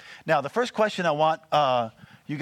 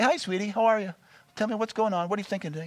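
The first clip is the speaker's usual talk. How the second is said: higher, sweet husband-to-wife chat; affectionate greeting; 5 semitones higher, faster than usual. Acted. Husband checking in with his wife on a walk, affectionate and higher. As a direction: greet your sweetheart lightly, pitched up.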